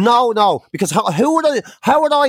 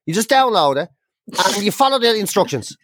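higher, brightly insistent, imitating the researcher; breezy researcher; 5 semitones higher than usual. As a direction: cheerfully talk her through it. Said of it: "She's like".

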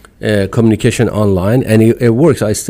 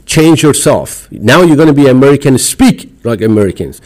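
mock demand; 5 semitones higher, 5 dB louder than usual. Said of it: "the moment you tell me".

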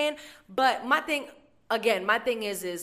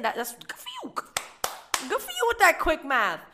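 sarcastic praise; 9 semitones higher, 4 dB louder than usual. Retold or imitated. Mocking the customer's math.

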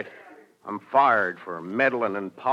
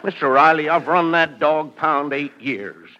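earnest plea; 5 semitones higher, 7 dB louder than usual. Acted. Pleading to get job back.

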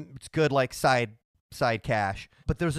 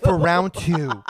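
louder, slow and emphatic; 3 semitones higher, 7 dB louder, slower than usual. Real, not acted. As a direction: stress the words round two. S0 repeats it loud and emphatic.

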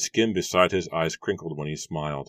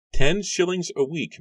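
much higher, louder, quick farmer's voice; brisk Matthew; 13 semitones higher, 7 dB louder than usual. A narrator's reading. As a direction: answer fast as the gruff farmer. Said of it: "Matthew replied quickly".

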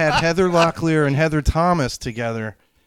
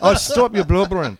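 grandmother voice; 5 semitones higher, 3 dB louder than usual. Retold or imitated. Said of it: "she'd be like".

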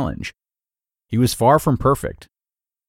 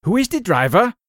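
put-on a German accent, pitched much higher, ending in a rise; father's German accent; 10 semitones higher than usual. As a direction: imitate a German father asking who is driving. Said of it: "my father would say in his German accent".

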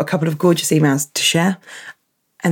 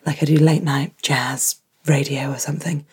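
husky morning voice; 2 semitones lower, 4 dB quieter than usual. Real, not acted. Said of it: "I sound sort of husky".

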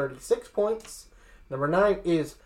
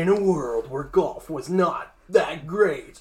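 a hint of the movie trailer guy, slow; mock-epic trailer read, lightly done; slower than usual. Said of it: "We, we need the movie guy's voice".

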